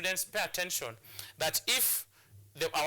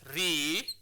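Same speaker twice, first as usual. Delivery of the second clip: "repentance" broken into RE, PEN, TANCE with long pauses; syllable by syllable; 4 dB louder than usual. Shown as a demonstration. Teacher counting out a three-syllabic word, "repentance" split into separate syllables. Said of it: "is a three-syllabic word".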